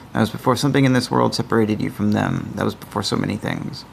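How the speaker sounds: lightly dramatic narrator; story narration. A narrator's reading. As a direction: read it like an adventure game intro. Narrates text adventure intro.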